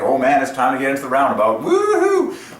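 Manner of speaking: put-on gleeful kid entering the roundabout, squealing; thrilled driver. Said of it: "You're like".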